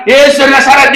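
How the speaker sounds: high-pitched mock shout; crying out. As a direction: call it out like the crowd's cry. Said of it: "dia nggak berseru".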